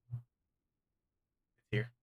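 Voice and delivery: put-on a light British accent on the demon. Game master admits the demon's British accent, light British accent. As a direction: slip into a posh British lilt. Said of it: "Don't know where the British accent came from".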